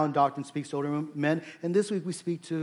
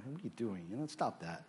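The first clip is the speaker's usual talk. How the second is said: mock scolding; 4 semitones lower, 11 dB quieter than usual. Voices an onlooker's mild scolding.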